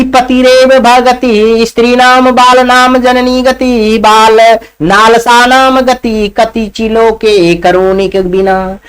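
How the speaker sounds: slow, measured recitation; verse recital. Acted.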